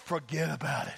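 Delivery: a half-hearted stab at New York talk; New York accent. Acted. Pastor trying a catchphrase on the congregation, weak New York accent. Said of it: "I can't do a New York accent".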